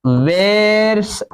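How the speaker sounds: वेयर्स said as wares, rhyming with cares; pronunciation demo. Shown as a demonstration. Teacher correcting himself, वेयर्स said like wares. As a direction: show the class how वेयर्स sounds. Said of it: "वेयर्स ऐसे पढ़ना है".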